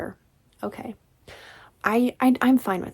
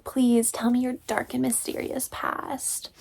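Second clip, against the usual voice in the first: whisper; 4 semitones higher than usual. Retold or imitated. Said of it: "she's like".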